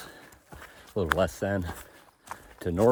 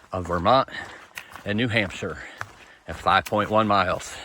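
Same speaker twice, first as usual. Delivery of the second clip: normal talking voice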